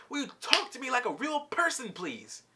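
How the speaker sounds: acted fed-up plea; retold exasperation. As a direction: imitate someone losing it, mildly. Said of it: "then he just loses it".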